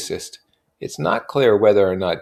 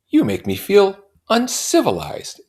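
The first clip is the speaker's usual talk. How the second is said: higher, louder confession; raised sheepish voice; narrator's confession; 7 dB louder than usual. A narrator's reading. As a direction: speak up half-joking.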